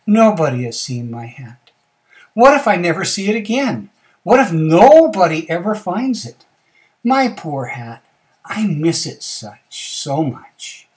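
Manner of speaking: loud storybook lament, slowing at the end; sad. Acted. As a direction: wail it, then drag out the longing. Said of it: "he's kinda sad".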